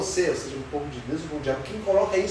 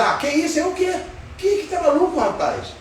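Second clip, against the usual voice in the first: indignant disbelief; 8 semitones higher than usual. Retold or imitated. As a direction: scoff at the accusation in disbelief. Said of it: "ele, ele falou assim". (indignado, incrédulo, tom alto)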